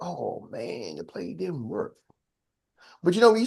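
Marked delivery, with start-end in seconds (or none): 0.0-2.0 mock disappointment. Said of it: "It's like".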